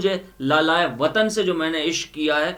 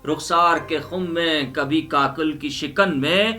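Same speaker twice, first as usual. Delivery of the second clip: rising, louder declamation of verse; impassioned poem recitation; 3 semitones higher, 6 dB louder than usual. Acted. Reciting the homeland verses to the audience, impassioned recital. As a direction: build the verses to a passionate peak.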